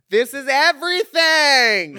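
high, slow laughing praise; laughing gush. Real, not acted. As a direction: laugh through the compliment. Gushing with laughter.

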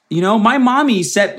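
high dopey pet talk; mock dog talking about mommy; stupid dog voice. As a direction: put on a high, silly dog voice. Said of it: "make it all fucking stupid".

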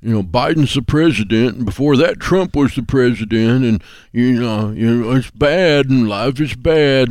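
dragging out "bad" in mock gloom; mock gloomy complainer. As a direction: lightly drag out the bad news like a sulking pessimist.

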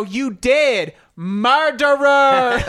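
slow, loud, high cry of murderer; drawn-out accusation. Retold or imitated. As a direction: stretch out the accusation. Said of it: "they go".

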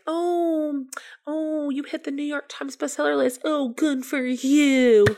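high, slow, put-on cheer; fake congratulations. Congratulating a bestselling peer, faking cheerful praise. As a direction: gush with hollow enthusiasm. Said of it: "It was all fake".

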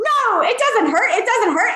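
sing-song mock comforting; retold reassurance. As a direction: imitate a waxer insisting all is well. Retold waxer reassuring her client.

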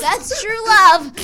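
high, loud, slow swooning voice; mock lovestruck girl. Mocking the girl who inhaled the fart, high swoon. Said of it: "she's like".

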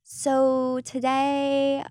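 slow, drawn-out sing-song opener; influencer voice. Retold or imitated. Host mocking an influencer's tutorial intro, slow and sing-song. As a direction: stretch the start like a lifestyle influencer. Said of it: "do that thing where it's like".

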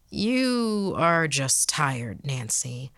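slow, soothing father; calm him down gently, slowly; reassuring dad. Acted. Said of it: "my dad said".

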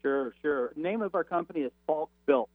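breaking up over a phone line; faint, cutting-out phone call; crackly cordless phone. Real, not acted. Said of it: "you're breaking up a little again".

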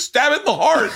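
high, shouted imitation of the guy; retold urgent order. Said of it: "And the guy goes".

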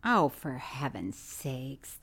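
low, slow, soft, fed-up sigh; exasperated groan. Real, not acted. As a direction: drag it out in disbelief. Exasperated at friend's theory.

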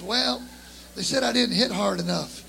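ordinary delivery

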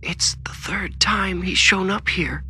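high, slow, whispery dread; trembling fear. A narrator's reading. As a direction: gasp it out slowly, high and scared. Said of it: "sucked in a sharp, trembling gasp".

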